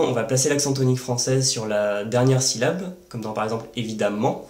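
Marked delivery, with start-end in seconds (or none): 3.8-4.5 "évidemment" with light stress on the last syllable, ment; final-syllable stress. Shown as a demonstration. Teacher illustrating weak French stress, light accent ending "évidemment". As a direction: lean gently on the ment of "évidemment". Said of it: "vous entendez le ment qui est accentué".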